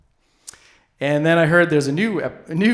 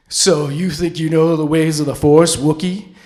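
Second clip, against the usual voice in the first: a hint of menacing Darth Vader, a bit louder; Vader taunt; 5 dB louder than usual. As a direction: taunt the Wookiee like a mock villain.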